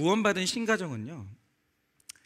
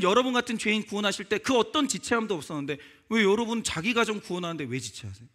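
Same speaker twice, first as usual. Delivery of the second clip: urgent appeal; 4 semitones higher, 3 dB louder than usual. Real, not acted. Preacher's closing appeal.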